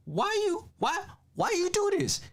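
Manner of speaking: high, pleading cry of outrage; a high anguished why; outraged plea. Pretend. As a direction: beg to know why, voice way up. Outrage at the beaten baby.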